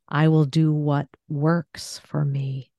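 "works" set apart and stressed, slow. Shown as a demonstration. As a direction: slowly lean on "works". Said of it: "let me, uh, do one of these".

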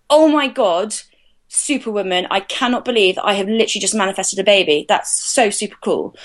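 mildly thrilled self-talk, lifted on the opening; a touch of amazed delight, quickly settling; retold excitement. Woman recalling seeing her positive test, mildly excited. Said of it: "just so excited".

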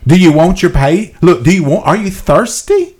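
rising eagerness, pressing the listener with questions; animated. Real, not acted. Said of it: "I'm getting a little animated when I speak".

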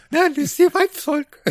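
high, laughing through the words. Real, not acted. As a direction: giggle out the line. Laughs while answering joke.

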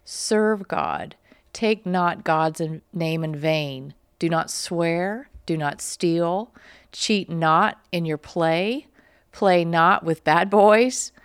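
put-on slow, measured reading of a children's lesson; slow recitation. Host reading the primer's lesson to viewers, slow and deliberate. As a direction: spell each command out like a schoolroom drill.

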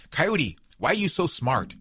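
a hint of an eager little animal; trickster tale voices. Badger asks Coyote.

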